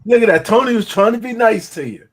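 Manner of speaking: laughing. Real, not acted. Teasing a friend, laughing.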